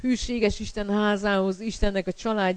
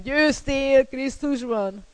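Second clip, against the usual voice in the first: higher, drawn-out cry of victory; mock shout; 5 semitones higher, much slower than usual. Preacher voicing what circumstances do not shout, mock shout. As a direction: call it out slowly, pitched up. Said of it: "nem azt kiabálják".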